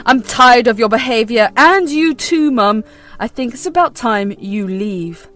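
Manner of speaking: loud and firm; husband putting his foot down. Acted. Husband orders mistress and mother out, loud and firm. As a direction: shut it down. Austin ends it.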